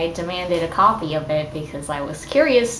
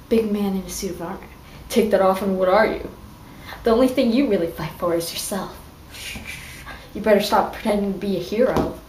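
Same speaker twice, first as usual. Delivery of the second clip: quicker, more theatrical retry; reading a fanfic quote with more drama for viewers, hammed-up; dramatic reading, second try; faster than usual. Shown as a demonstration. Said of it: "let me try that again".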